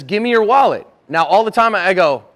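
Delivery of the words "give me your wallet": raised, louder robber's order; acted hold-up demand; mugger's demand. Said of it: "Somebody sticks a knife on you and says".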